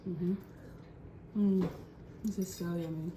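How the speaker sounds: talking while chewing; words around a mouthful of food; mouth full. Real, not acted. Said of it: "Talking with my mouth open, chewing".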